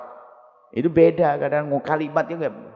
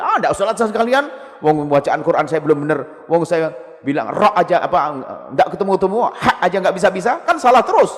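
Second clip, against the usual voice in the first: frustrated learner; 4 semitones higher, 4 dB louder than usual. Retold or imitated. Frustrated learner gives up praying.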